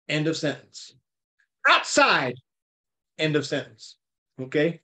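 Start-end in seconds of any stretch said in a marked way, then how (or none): 1.7-2.4 high, forceful call; loud command. Retold or imitated. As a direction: shout it as an order. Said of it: "he cried out with a loud voice".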